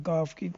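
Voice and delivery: گاف stressed and clear for the hard g; letter sound demo. Shown as a demonstration. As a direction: say گاف firmly as the model sound. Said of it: "گاف کی طرح اس کی آواز نکلے گی".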